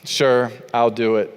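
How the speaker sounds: a low, reluctant sigh of a yes; grudging reluctant yes. Retold or imitated. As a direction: say it like a chore you can't refuse. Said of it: "It's not doing this like what I told you".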